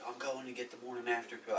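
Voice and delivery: hushed, dropped soft; whispering. Real, not acted. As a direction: keep it down like a secret. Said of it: "Why are you whispering?".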